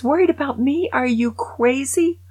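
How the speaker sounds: high, loud bragging ghost; gleeful Raj. Retold or imitated. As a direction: brag from the afterlife with delight. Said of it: "Raj goes".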